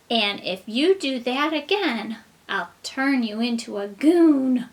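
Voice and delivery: lightly voiced stern fairy. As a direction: warn like a gentle fairy. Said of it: "and she said".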